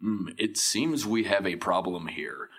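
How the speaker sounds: lightly posh British, slow and deliberate; a hint of a refined Englishman, each word placed; mock Hugh Laurie British. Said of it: "he actually talks how I kinda thought I'd talk".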